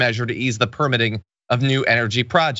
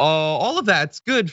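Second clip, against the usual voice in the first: drawn-out, sarcastic concession; 4 semitones higher, slower than usual. Real, not acted. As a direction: say it slowly, tongue in cheek. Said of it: "I'm being sarcastic".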